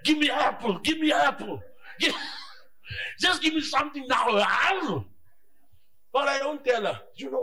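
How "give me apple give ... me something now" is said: mock shout of a fasting man; hungry fasting craving. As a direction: beg like a starving faster. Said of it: "Feel like".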